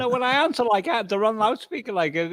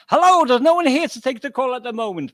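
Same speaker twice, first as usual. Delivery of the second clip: answering machine greeting; stiff memorized speech; 5 semitones higher, 7 dB louder than usual. Retold or imitated. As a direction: recite it like a recorded message. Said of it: "I've memorized it".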